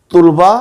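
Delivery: तुलबा as tul-ba; mispronunciation demo. Shown as a demonstration. Teacher showing what not to read, तुलबा as tul-ba. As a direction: say तुलबा with u and two syllables. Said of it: "गलत है".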